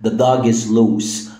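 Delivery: The dog is loose, slow and clear; slow example. Shown as a demonstration. Teacher repeating the example slowly. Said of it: "لما أقول لك".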